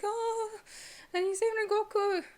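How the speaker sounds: squealing high and bright with excitement; excited squeal. Real, not acted. Fan gushing to viewers about a manga panel, squealing. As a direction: gush like a fan who can't contain it.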